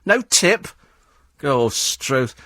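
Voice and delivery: mock grumpy cab driver, rising into indignation; lightly voiced disgruntled cabbie; miserable cabbie. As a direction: play a cabbie affronted over a tip. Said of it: "one of the miserable ones".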